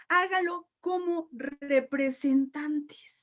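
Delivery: "Hágalo como representantes" dragged out very slowly; slow emphasis. Shown as a demonstration. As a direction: stretch every word of "Hágalo como representantes". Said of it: "repeats slowly to stress".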